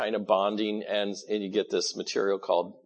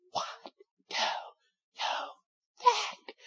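mock shout over noise; 6 dB quieter than usual. Talking beside Niagara Falls.

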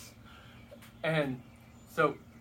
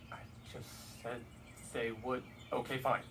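exasperated God; 3 semitones lower, 7 dB quieter than usual. Retold or imitated. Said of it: "God's gotta be here going".

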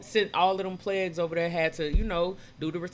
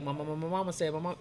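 Moses; 3 semitones lower, 4 dB quieter, faster than usual. Retold or imitated. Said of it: "Moses had a stuttering problem".

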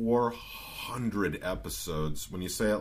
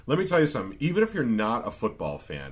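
coach voice; 5 semitones higher, 5 dB louder, faster than usual. Retold or imitated. Quoting Coach Beam.

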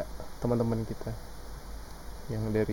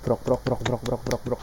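mouth applause sounds; 4 dB quieter than usual. Pretend. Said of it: "Pakai suara dong".

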